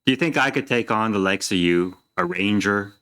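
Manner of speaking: deadpan. Acted. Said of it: "with this kind of deadpan stare and says".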